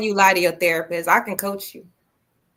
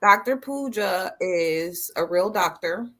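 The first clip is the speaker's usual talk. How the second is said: slow, deliberate delivery; slow explaining; 2 semitones lower, slower than usual. Pretend. Clearing things up for Zoe, slow mock-serious explaining. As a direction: spell it out slowly, word by word.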